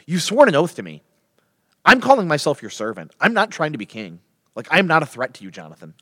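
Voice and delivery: acted earnest insistence; insistent appeal. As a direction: press the point firmly to a friend. Acted David insists on his loyalty.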